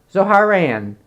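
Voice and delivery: Zoharan stretched to three parts, zo-HAR-an; attempted pronunciation. Shown as a demonstration. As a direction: add a syllable in "Zoharan". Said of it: "I can't pronounce it".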